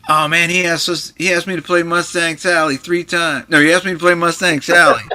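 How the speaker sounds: indignant storyteller's imitation; imitating Johnny. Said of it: "Why did you hit him".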